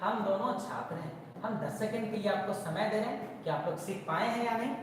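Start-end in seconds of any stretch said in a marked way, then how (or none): 0.0-1.4 slow, word by word for students to write; teacher dictating a sentence to students, slow and clear; slow dictation. Shown as a demonstration. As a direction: dictate it slowly to the class. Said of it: "आप लोग बनाएंगे ये sentence को".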